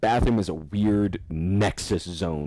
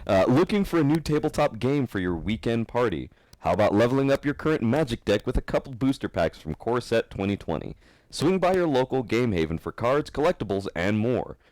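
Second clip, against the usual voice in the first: upbeat podcast ad read; sponsor ad read; 4 semitones higher than usual. Acted. Host reading Game Haven sponsor spot to listeners, ad-read voice. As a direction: sell the store to listeners, like an announcer.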